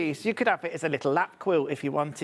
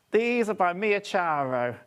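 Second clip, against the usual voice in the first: slow, lightly put-on Italian accent; slower than usual. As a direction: draw the name out with a hint of Italian. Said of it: "We've been saying it in an Italian accent".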